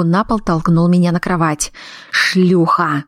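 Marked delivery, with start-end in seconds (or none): 2.1-3.0 hissed insult. A narrator's reading. Husband hisses an insult at his wife in rage. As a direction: hiss the slur through the teeth. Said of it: "прошипел Ян".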